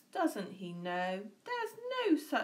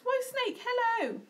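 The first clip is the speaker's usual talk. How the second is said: bold greeting; 6 dB louder than usual. Acted. Mouse greets snake boldly.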